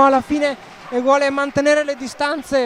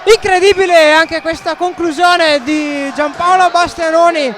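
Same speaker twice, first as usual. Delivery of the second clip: excited commentary; 3 semitones higher, 7 dB louder than usual. Real, not acted. Recapping the goal.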